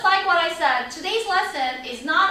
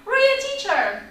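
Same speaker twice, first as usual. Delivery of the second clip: higher-pitched call for attention; student calling teacher; 6 semitones higher, slower than usual. Acted. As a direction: call out to the teacher from your seat. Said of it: "you can raise your hand and say".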